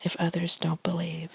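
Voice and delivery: ASMR whisper reading tarot cards; hushed ASMR card reading. Real, not acted.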